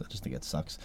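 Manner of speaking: whispered repeat, voiceless. Real, not acted. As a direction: say it again under your breath. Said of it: "repeated softer".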